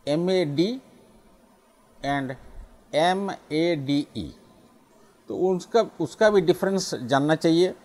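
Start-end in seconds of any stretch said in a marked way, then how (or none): 0.1-0.8 एमएडी said mad with a short flat a. Shown as a demonstration. Teacher demonstrating short a in mad. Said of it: "जैसे कि". 2.9-4.3 एमएडीई said slowly as made with long ay. Shown as a demonstration. Teacher contrasting long ay in made. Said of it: "जैसे कि".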